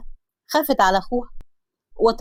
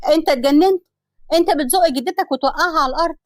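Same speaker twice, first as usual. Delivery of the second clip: angry yell; 5 semitones higher than usual. Acted. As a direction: shout at the boy who pushed grandma. Mona yells at nephew.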